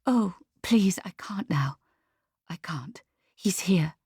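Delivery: urgent hushed whisper; very quiet. A narrator's reading. Lucia on the landline with someone nearby, very quiet whisper. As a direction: whisper a plea down the phone. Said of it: "she says very quietly".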